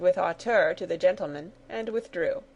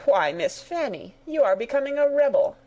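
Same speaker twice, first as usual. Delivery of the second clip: louder, faster, covering anger with a laugh; forced laughing rebuke; 7 semitones higher, 4 dB louder than usual. Acted. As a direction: laugh it off through gritted annoyance. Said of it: "endeavouring to laugh away the anger".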